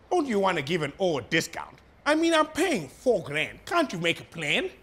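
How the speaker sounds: a hammed-up Indian accent; a weak, exaggerated Indian accent put on for laughs; bad Indian accent. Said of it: "the worst Indian accent I've ever heard".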